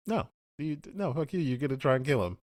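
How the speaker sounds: high-pitched mock indignation; retold angry refusal. Host voices Rogue protecting him from visitors, mock indignation. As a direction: imitate a heated, protective refusal.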